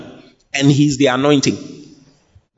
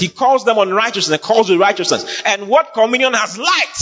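preaching; 5 semitones higher than usual. Real, not acted. Preaches on a read verse at raised pitch.

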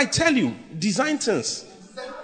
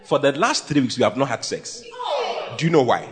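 low, subdued complaint; confiding husband; 5 semitones lower than usual. Retold or imitated. A husband confides in his pastor, subdued complaint. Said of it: "a husband who came to me and told me".

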